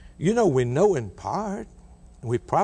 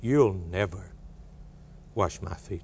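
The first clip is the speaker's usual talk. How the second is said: rash refusal; 6 semitones lower, 5 dB quieter than usual. Acted. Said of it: "he speaks rashly".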